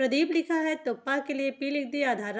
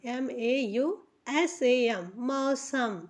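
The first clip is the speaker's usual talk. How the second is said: slow spelling; much slower than usual. Shown as a demonstration. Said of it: "spelling letter by letter".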